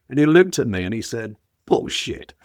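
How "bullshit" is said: breathy half-laughed retort, imitating a Sydney bloke; laughing scoff. Sydney local scoffing at a Wigan man, laughing. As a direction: blurt it out through a laugh, mocking disbelief.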